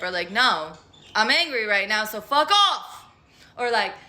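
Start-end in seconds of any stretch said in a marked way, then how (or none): 0.3-3.0 mock angry. Acted blunt reply, angry.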